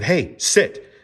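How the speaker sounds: sharp mock bark at the dog; mock harsh command to the dog. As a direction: snap it like a rough owner. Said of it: "smacked him upside the head and said".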